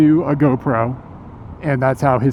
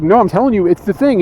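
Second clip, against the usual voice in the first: mock insistent streamer, raised and higher; argumentative; 6 semitones higher, 3 dB louder than usual. Streamer insisting to the narrator, mock argumentative. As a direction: imitate him arguing back, pitched up. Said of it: "he was argumentative about it with me".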